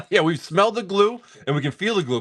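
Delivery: laughing through the words; giggling while joking; amused, laughing delivery. Real, not acted. Joking about glue smell, laughing.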